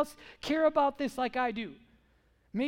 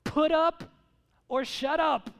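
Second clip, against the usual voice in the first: emphatic challenge; 4 semitones higher, 6 dB louder, slower than usual. Real, not acted. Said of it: "Why don't you".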